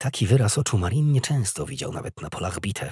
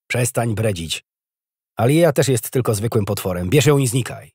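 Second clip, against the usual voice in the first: louder, impatient growl; snarled order; 3 semitones higher, 5 dB louder than usual. A narrator's reading. Officer dismissing the soldier's protest, growling. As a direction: growl the dismissal with mounting force. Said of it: "warknął Adam".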